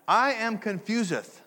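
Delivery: slow, high mock-archaic voice; hammed-up olde English confession; mock King James English. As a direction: parody old Bible speech in bafflement. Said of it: "I don't talk like that".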